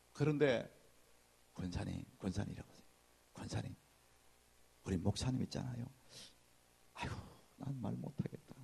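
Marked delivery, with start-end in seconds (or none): 1.5-8.6 lowered, soft gossiping voice; softer, lower secret-telling to a deaconess; hushed gossip. Retold or imitated. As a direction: lean in and hush it like a secret. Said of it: "조용히 이렇게 말하는 소리는".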